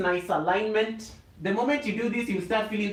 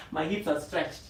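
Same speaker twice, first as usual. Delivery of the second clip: laughing; 2 semitones lower, 3 dB quieter than usual. Real, not acted. Laughing at her own stretch.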